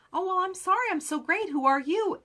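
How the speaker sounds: hammed-up snooty comeback; mock haughty. Rep mocks a defensive rival seller, sarcastic and high.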